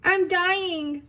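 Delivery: hammed-up squeaky baby bear protest; Baby Bear crying out. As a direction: spit it out like a tiny bear who thinks he's dying. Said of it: "cried Baby Bear".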